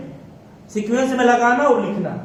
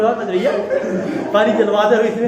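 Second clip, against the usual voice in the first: teasing line broken up by laughter, a bit louder; laughing mock quote; 4 dB louder than usual. Teacher mimics student Priyanka, laughing. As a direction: giggle through the imitated request. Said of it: "Priyanka बैठी है अकेले swimming pool में".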